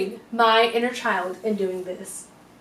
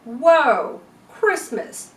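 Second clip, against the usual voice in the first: over-the-top excited; 3 semitones higher, 5 dB louder, much slower than usual. Retold or imitated. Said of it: "and not like".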